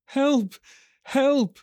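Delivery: high-pitched, panicked little squeal; hatchling's cry. Acted. Frightened hatchling cries back to the looming rider, panicked. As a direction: cry out far above your own voice. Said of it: "he cried".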